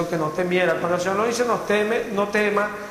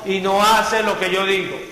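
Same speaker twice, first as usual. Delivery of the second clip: solemn voice of the Lord; 3 semitones higher, 4 dB louder, slower than usual. Acted. The Lord rebukes those who call him Señor, slow and solemn. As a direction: lean on each word like the Lord rebuking. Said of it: "El Señor dice".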